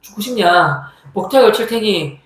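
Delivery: mildly worked-up telling-off; mock threat with a little push; retold cursing threat. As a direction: act out a bully scolding the non-bowers. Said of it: "이러면서 막 욕을 한 거예요".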